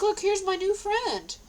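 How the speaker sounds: cheerful introduction. Retold or imitated. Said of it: "She's real nice".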